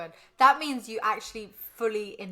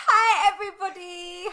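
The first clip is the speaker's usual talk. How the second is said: high, loud squeaky greeting; squeaky voice, half laughing; 8 semitones higher, 5 dB louder than usual. Real, not acted. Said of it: "Me and my squeaky fucking voice".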